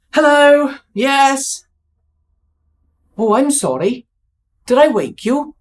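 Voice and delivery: apologetic Welsh caller, lightly done; hint of a Welsh tax officer; bad Welsh accent. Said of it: "Bad Welsh accent".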